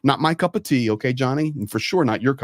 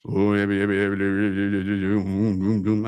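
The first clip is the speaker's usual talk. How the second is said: rapid string of yeahs in a lower voice; eager priest; 4 semitones lower than usual. Retold or imitated. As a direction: gush yeah yeah like a delighted priest. Priest's eager answer retold.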